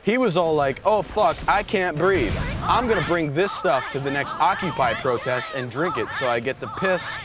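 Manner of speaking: lightly voiced bro commenter. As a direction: read it out like an amped-up dude commenter. Voices a bro's online comment.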